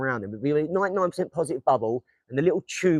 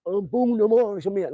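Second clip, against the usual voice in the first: mock proud Irish; 6 semitones higher, 3 dB louder than usual. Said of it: "This is why Irish people got small brains".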